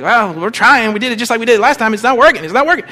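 lightly acted frustrated protest, pitch climbing; flustered disciples. Disciples defending their failed healing, flustered protest. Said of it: "the disciples are like".

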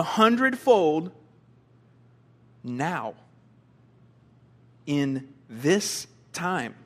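deliberate reading with long pauses on key words; scripture reading. Real, not acted. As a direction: read it out solemnly, weighing each phrase. Reads scripture to congregation.

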